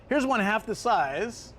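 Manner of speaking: slow, drawn-out emphasis; slow emphatic. Real, not acted. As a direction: spell out the absurdity slowly. Stressing absurd pricing.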